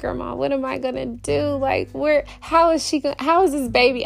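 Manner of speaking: put-on big baby whine. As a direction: beg grandma like a little kid. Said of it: "I act like a big baby".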